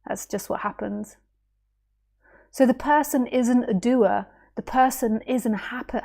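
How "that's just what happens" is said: breathy trailing whisper. Real, not acted. Teacher trailing off to listeners in a whisper. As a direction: let it fade to a whisper. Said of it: "trailing off after apology".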